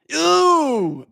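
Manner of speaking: sudden high yelp of disgust. Real, not acted. Streamer reacting to a bad transition, high disgusted yelp. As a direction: recoil at something ugly.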